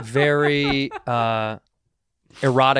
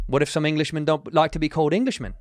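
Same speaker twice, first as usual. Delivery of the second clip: put-on British accent; 3 semitones higher than usual. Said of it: "the accent you just did".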